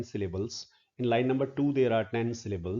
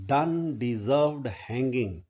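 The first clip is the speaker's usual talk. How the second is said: quoting Johnson; slower than usual. Retold or imitated. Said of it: "to pronounce that here".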